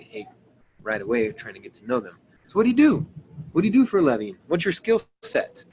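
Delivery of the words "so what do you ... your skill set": bright, high, curious questions; upbeat demo question. Shown as a demonstration. Coach showing how to ask about someone's work, higher and eager. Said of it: "That's how I would say it".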